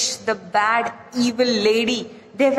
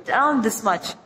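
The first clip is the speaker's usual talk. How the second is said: usual speaking voice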